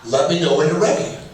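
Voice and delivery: quick, even announcement of something important; demonstrating how to raise a big topic with your spouse; calm request. Shown as a demonstration. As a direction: say it evenly, no heat. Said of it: "So just say that".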